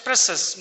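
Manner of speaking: "precious" as PRESS-us; correct pronunciation. Shown as a demonstration. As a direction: say "precious" with a short e in the first syllable. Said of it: "Correct pronunciation".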